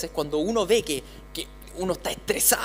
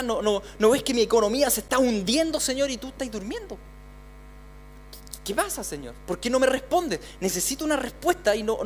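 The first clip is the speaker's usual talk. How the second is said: desperate prayer; 2 semitones higher than usual. Acted. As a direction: plead with a silent Lord. Voicing a desperate believer's prayer.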